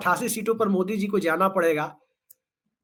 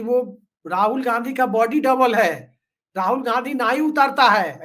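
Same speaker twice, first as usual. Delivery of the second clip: lightly imitated politician's tone; a hint of a mimicked political speaker; Himanta Biswa Sarma's tone. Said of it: "वो अपने tone में बोलते हैं".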